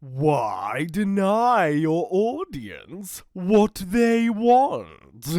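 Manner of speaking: slow, lightly voiced sly drawl; savouring the trick; mildly sly dingo with a grin; grinning dingo. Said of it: "he said with a grin".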